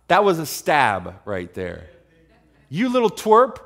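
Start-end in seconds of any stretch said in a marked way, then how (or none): 2.7-3.6 high, loud name-calling; acted sibling put-down; scornful big brother. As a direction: needle a little brother, voice raised. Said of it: "this is big brother, little brother".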